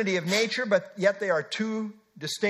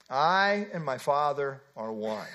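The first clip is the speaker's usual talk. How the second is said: solemn; 6 semitones lower, slower than usual. Real, not acted. Quoting the ultimate statement.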